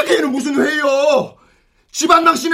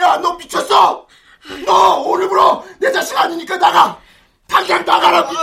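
furious shouting. Acted. Father shouts at his son to leave the house, furious. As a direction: drive him out of the house.

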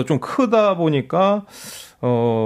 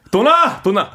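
high, punchy repeated call; playful calling out; 3 semitones higher, slower than usual. Acted. Guest acting out the karaoke name's meaning, calling out. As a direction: call it out like a name, then ease off. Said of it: "누구야, 누구야?" 하는 것처럼".

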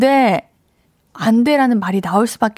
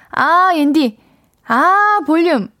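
mimicked "아" habit; 5 semitones higher, slower than usual. Shown as a demonstration. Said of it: "이런 느낌으로 읽는 거 맞나요?".

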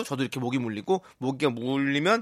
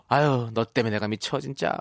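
fed-up sigh; 5 semitones lower than usual. Pretend. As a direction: mutter it, half exasperated. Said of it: "입속에서 이런 말이 나올 겠네요". (지친 듯 투덜대는 말투)

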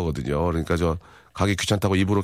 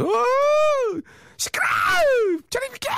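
very high, squealed tearful protest; mock crying outburst; faster than usual. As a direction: imitate wailing and pushing someone away. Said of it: "울고 막 화장 막 떡대고". (울며불며 악쓰는 흉내)

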